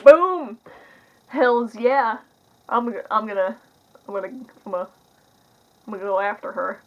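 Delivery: loud, excited whoop on Boom, then settling; mock-thrilled guy spotting a girl; pumped-up hype. The speaker retold spotting Jennifer Lawrence.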